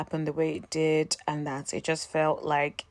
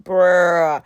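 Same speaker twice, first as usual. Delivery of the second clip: loud bruh; 9 dB louder than usual. Retold or imitated. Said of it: "I'm like".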